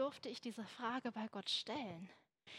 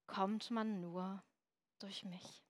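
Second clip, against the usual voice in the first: lower, slow, fading into a whisper; slow down and breathe the last words; slow hushed whisper; 4 semitones lower, 6 dB quieter, slower than usual. Acted. Climax of Jesus quote.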